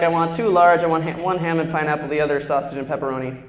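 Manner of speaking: low, firm pizza order; mock deep order. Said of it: "I'd be like".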